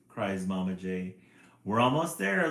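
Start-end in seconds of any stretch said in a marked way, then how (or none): 1.6-2.5 loud, slightly high nervous reassurance; girl on the ladder, nervous; nervously. A narrator's reading. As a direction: keep going though scared. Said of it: "the girl says nervously".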